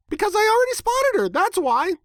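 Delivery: very high, fast, bubbly pony voice; matter-of-fact Pinkie. A narrator's reading. Pinkie explains to her puzzled friends, high and quick. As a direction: rattle it off like it's obvious. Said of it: "she explained to us as though we made no sense".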